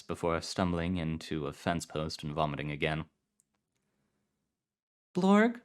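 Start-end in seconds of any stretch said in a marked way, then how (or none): 5.1-5.6 high, strange creature voice; high odd creature voice. Acted. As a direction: squeak it out like an alien. Vomiting then new voice.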